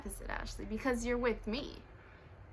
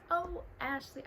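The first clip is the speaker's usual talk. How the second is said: mock pitying voice; 6 semitones higher, 4 dB quieter than usual. Repeating the pitying people's words in a lightly mocking voice. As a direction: echo the pitying people once more, lightly mocked. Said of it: "why I sound like this".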